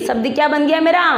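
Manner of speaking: usual speaking voice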